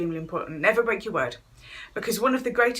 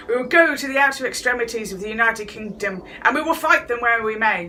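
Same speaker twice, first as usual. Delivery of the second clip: Churchill impression; 4 dB louder than usual. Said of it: "Churchill had said".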